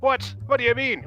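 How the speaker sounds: high, startled "what?" from the priest; a priest hearing a swear word; shocked priest. Retold or imitated. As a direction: play the priest caught off guard by a curse.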